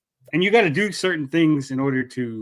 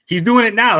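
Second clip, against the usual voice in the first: higher, louder put-on gay voice; mock gay voice; 8 semitones higher, 8 dB louder than usual. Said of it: "this is my gay voice".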